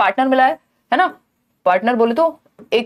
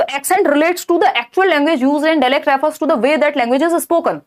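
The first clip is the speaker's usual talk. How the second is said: slow, deliberate reading of the question; reading question aloud; 2 semitones higher, much slower than usual. Acted. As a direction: read it out slowly for the class. Reads answer option. (प्रश्न को धीरे-धीरे पढ़कर सुनाना)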